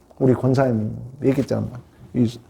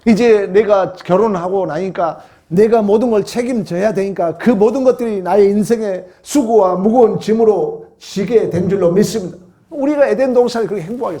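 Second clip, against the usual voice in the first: insistent, driving sermon voice; impassioned preaching; 8 semitones higher, 5 dB louder than usual. Real, not acted. Preacher telling congregation of married life's burdens, impassioned. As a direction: press the point on the congregation.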